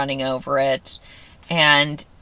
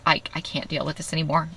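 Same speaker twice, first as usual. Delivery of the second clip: quiet, defeated pleading, a touch of tears; a hint of crying to her husband; retold crying; 4 dB quieter than usual. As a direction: softly beg to be done with it. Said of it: "I'm crying".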